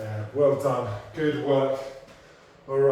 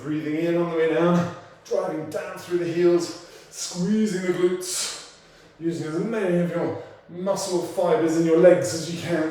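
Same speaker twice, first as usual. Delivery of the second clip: loud coaching; 4 semitones higher, 4 dB louder than usual. Real, not acted. Coach pushing class through squats.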